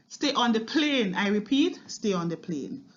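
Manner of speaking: lightly voiced pilot's announcement, firm then dropping; pilot repeating an order. Pilot to passengers who may not have heard, lightly acted insistence. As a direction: repeat it for anyone who missed it, mildly insistent. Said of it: "the pilot repeated it as if".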